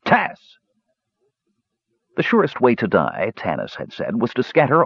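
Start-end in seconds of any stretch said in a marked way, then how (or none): 0.0-0.6 high call into the wind; mock call, higher. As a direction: yell for the lost kender. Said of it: "he shouted".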